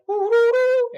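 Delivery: high hooting woo sounds; Indian trumpet imitation. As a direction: hoot like a wailing horn. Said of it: "they sound like".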